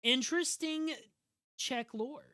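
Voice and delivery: squeaky high "Interesting"; high-pitched interesting. Pretend. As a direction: pitch "Interesting" way up, mock surprised.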